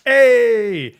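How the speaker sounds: high, loud mock outburst; retold shout. Host retells reacting to the film, high loud shout.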